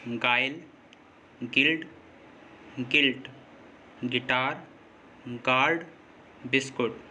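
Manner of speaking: गाइल, गिल्ड, गिल्ट, गिटार, गार्ड with hard G straight into the next vowel; बिस्कुट with no "w" glide after the K, U unsounded; silent U. Shown as a demonstration. Teacher listing examples of U before another vowel, silent U. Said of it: "यू silent होता है".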